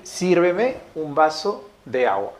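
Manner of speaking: "Sírveme un vaso de agua" said slowly and evenly, each word set apart; slow, careful dictation. Shown as a demonstration. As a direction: read it out slowly, like dictating to the class. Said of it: "coloquemos ahí". (dictado lento y claro)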